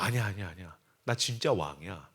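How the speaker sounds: slightly hushed, low insistence; low reassurance. Acted. King calming his guards, low hushed insistence.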